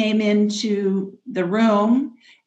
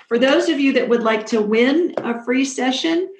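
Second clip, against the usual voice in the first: game show host; 4 semitones higher than usual. Real, not acted. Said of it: "I sound like a game show host, don't I".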